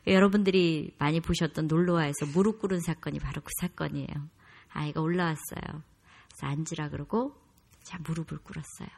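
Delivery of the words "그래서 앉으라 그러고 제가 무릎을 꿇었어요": ordinary delivery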